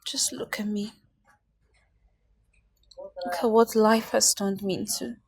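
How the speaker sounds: low hushed despair; despairing whisper. Acted. Mother showing friend her ruin, in a despairing whisper. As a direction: whisper it, defeated. Broken woman shows her state.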